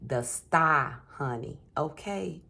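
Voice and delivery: a light Jersey accent, sassy. Shown as a demonstration. Reader telling viewer the card in a light Jersey accent. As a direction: lean into a brassy Jersey accent. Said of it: "empty Jersey accent".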